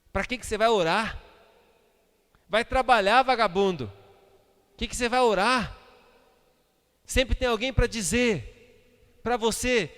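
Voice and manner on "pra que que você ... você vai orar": louder, higher challenge from the crowd; scornful heckling. Acted. Crowd trying to discourage a worshipper, scornful. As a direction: jeer at someone for going to pray.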